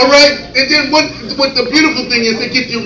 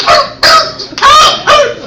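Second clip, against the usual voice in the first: very high, yappy little barks; little dog barking; 4 dB louder, much slower than usual. Retold or imitated. Little dog yapping at its licking owner, barks. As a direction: yap like a tiny dog. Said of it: "the little dog is like".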